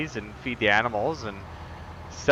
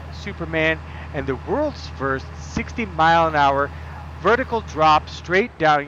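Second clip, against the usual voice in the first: cheesy tour host; 5 semitones higher than usual. Shown as a demonstration. Pretending to host a theme park video, hammed-up announcer. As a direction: sell the ride like a bad promo video. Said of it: "I should really do some of those god-awful videos".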